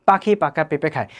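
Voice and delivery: unpuffed Bengali p in পাখি পাকা পেঁপে; Bengali accent. Shown as a demonstration. Teacher contrasts languages for learners, Bengali accent. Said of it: "আমরা যদি বাংলায় বলি".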